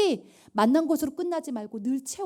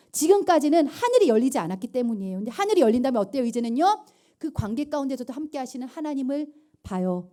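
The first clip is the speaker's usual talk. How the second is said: ordinary delivery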